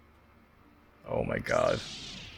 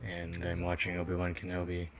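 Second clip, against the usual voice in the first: sexy narrator voice; 2 semitones lower, 7 dB quieter than usual. Pretend. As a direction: purr it like a late-night narrator. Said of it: "I'm gonna be adopting the sexy narrator voice".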